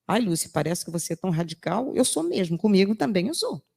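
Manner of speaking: ordinary talk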